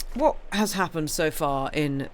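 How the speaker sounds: slow, drawn-out dramatic recap question; mock announcer. Opening the book recap for listeners, slow mock-dramatic announcer style. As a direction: intone it like a TV recap host. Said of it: "I don't know why I'm saying it like that".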